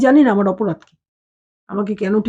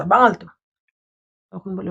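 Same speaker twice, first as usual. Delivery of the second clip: normal talking voice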